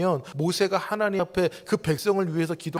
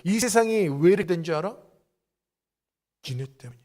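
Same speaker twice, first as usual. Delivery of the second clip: 1 God blaming. Retold or imitated. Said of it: "주님이 오늘 우리에게 말씀하시는".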